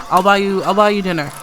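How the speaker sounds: loud, eager offer; eager promise. Acted. Alec promising Ramona dinner, eager and loud. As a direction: blurt it out to win her over. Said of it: "It's like".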